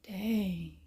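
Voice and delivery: hushed, amazed under the breath; whispered reaction. Retold or imitated. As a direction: breathe out a stunned dang. Reacting to YouTuber stories.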